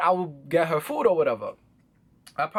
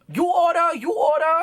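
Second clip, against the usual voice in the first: high, raised-voice mimicry of a counter worker; imitated restaurant lady; 10 semitones higher, 4 dB louder than usual. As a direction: call it out high and insistent, mocking her. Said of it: "The Chinese lady behind the counter, she was just like".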